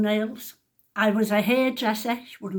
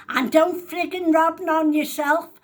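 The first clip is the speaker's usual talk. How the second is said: raised call from the next room; shouting through; 7 semitones higher, 7 dB louder than usual. Retold or imitated. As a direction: yell it through the wall. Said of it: "She's shouting through to me".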